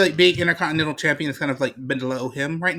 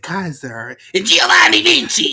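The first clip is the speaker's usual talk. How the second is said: hyped; 4 dB louder than usual. Pretend. Hyping Gunther's entrance.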